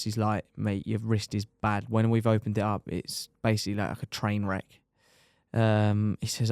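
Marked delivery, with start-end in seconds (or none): 0.6-4.8 dead serious. Retold or imitated. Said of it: "dead serious".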